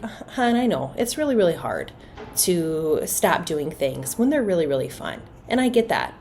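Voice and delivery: gentle, patient. Acted. Parent hugging an upset child who must leave, gently understanding. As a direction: acknowledge the child's feelings kindly. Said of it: "respond in a way that's gentle and kind".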